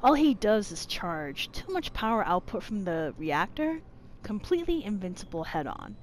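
reading aloud. Acted. Player reads game notes to viewers, even reading. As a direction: read it out evenly and softly.

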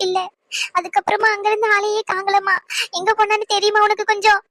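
worried, tearful pleading; a mother on the edge of crying. Acted. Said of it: "அத்தை, அழுகாதீங்க". (அழுதுகொண்டே கவலையாக)

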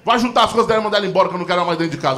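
hammed-up angry banishment; furious father. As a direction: imitate an irate dad rattling off orders. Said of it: "E ele puto, puto, puto".

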